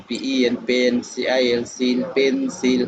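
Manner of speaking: measured spelling drill ending in a drawn-out "পেন্সিল"; বানান করে পড়া. Shown as a demonstration. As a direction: spell out each half, then join "পেন্সিল" slowly. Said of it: "তারপরে দুইটা একত্রে পড়াইবেন". ("পেন্সিল" ভাগে ভাগে বানান করে, শেষে টেনে একত্রে)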